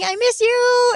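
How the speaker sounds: high, drawn-out wail; mock cry out to a lost mother; re-enacted shout. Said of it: "Kasi sinigaw ko".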